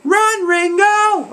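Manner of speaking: very high, drawn-out shout; yelling. Retold or imitated. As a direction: call out the warning, stretched high. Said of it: "and yelling".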